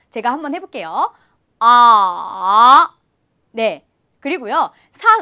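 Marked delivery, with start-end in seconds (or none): 1.6-2.9 아 dipping very low, then rising; third tone. Shown as a demonstration. Teacher showing learners the third tone, dipping 아. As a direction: drop 아 low and bring it back up. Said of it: "아주 낮은 음으로 뚝 떨어뜨리세요".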